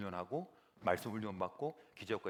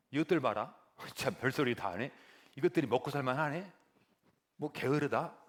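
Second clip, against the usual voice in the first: annoyed pharaoh; 3 semitones higher, 4 dB louder than usual. Acted. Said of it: "바로가 듣더니 더 열이 받은 거예요".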